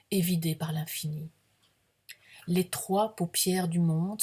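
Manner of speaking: measured, projected poetry reading; deliberate literary recital with pauses between images; poem recitation. Acted. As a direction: read it as solemn verse, phrase by phrase. Reads own poem aloud.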